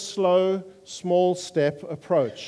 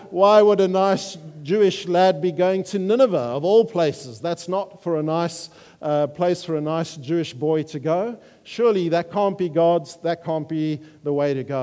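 put-on Jewish accent. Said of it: "if I could do a Jewish accent".

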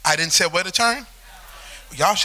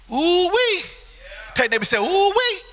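excited exclamation; 9 semitones higher than usual. Real, not acted. Preacher exclaiming.

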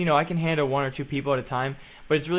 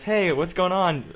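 cheery subscriber; 5 semitones higher, slower than usual. Retold or imitated. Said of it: "he goes".

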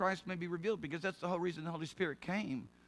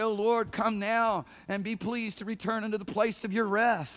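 raised, ringing plea to the Lord; invocation to God; 4 semitones higher, 5 dB louder than usual. Acted. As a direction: call it out as a public prayer. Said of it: "They would say".

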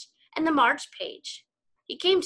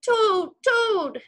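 higher, louder calling of a name; crying out; 10 semitones higher, 4 dB louder than usual. Acted. Scene: Frog keeps calling Toad, loud. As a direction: call to him across the house. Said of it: "cried Frog".

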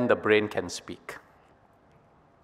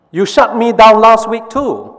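high, loud sulky complaint; ears' complaint; 10 semitones higher, 8 dB louder than usual. Acted. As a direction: whine it back, pitched up. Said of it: "says the ears".

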